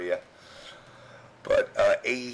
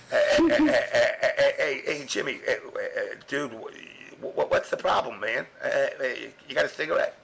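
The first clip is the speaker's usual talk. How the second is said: pestering guy; 3 semitones higher than usual. Retold or imitated. Arturo nagging the narrator outside for a cigarette, high and jittery. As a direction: play a jittery guy bugging you for a smoke.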